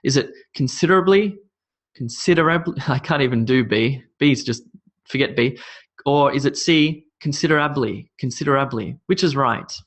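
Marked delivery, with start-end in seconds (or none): 0.5-2.8 considerably with stress on SID, as a question; considerably as con-SID-erably, questioning; stress shifted in considerably. Shown as a demonstration. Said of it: "where we place the stress". 7.2-9.0 considerably stressed late on AB, falling at the end; considerably as consider-ABLY; stress shifted in considerably. Shown as a demonstration. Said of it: "where we place the stress".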